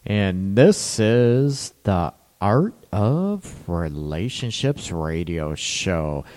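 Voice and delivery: sexy radio voice. Acted. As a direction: lay on the smooth late-night DJ voice. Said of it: "Trying to hit it up with my sexy voice".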